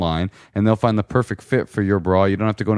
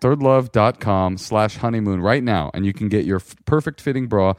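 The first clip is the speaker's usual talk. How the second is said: ad read; 3 semitones higher than usual. Acted. Sponsor ad read.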